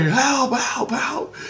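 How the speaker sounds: high, thin mock cry for help; weakly acted high-pitched plea; calling for help. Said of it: "I call my buddy for help".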